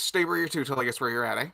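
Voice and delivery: Newfoundland accent. Shown as a demonstration. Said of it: "if I drop into the accent, I have to speed up".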